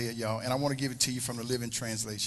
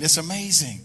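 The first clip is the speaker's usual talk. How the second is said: more emphatic; 2 semitones higher, 6 dB louder than usual. Shown as a demonstration. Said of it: "Let's try it again".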